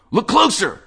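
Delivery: high, loud excited call. Acted. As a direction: jab at the screen with glee. Wade urging the narrator.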